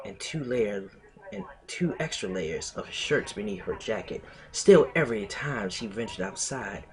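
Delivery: measured fan fiction read-aloud; story narration. Acted. Streamer reading fan fiction to friends, story narration. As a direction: narrate the story phrase by phrase, with pauses.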